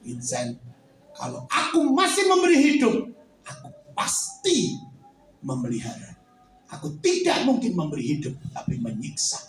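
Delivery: low grave voice of the Lord; God comforting Vincent. Acted. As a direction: speak calmly as God. God's voice again.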